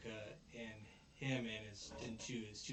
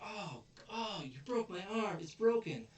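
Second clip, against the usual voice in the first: high, loud mock cry of pain; hammed-up, high-pitched wail; 10 semitones higher, 5 dB louder than usual. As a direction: ham up an injured thug's complaint. Acted thug faking an injury.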